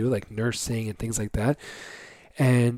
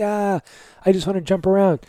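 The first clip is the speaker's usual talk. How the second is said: higher, louder gleeful burst; excited kid; 7 semitones higher, 4 dB louder than usual. Retold or imitated. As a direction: play a kid bouncing with joy. Voicing kids' excitement.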